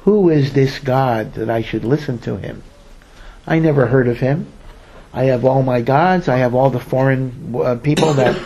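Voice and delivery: mildly mocking acted ruler; a touch of disdainful sarcasm; mockingly sarcastic. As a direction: lightly scoff as a dismissive Pharaoh. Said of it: "Paro mockingly and sarcastically says".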